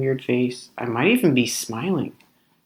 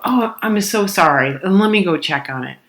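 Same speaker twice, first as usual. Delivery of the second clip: apologetic; 4 semitones higher, 4 dB louder than usual. Retold or imitated. Models ideal apologetic server.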